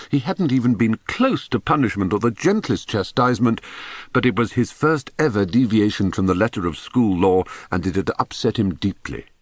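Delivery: ordinary delivery, nothing marked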